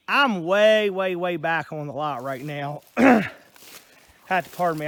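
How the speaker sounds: winded from the walk; breathless, catching breath between words. Real, not acted. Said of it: "I'm a little out of breath".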